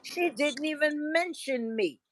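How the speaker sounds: mocking an upset man. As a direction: imitate him whining he wasn't mentioned. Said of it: "He said".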